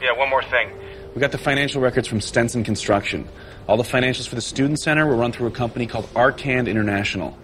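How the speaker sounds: phone speaker. Acted. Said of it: "You're on speaker".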